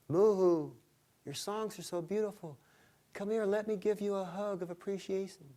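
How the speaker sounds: high, sweet coaxing voice; giant woman coaxing. Acted. Giant lake woman luring the songbird down, high and sweet. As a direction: lure him in with a sugary call.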